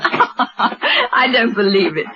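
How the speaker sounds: slow words through a laugh; laughing disbelief. Acted. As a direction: laugh it off, amused. Laughs at client's house name.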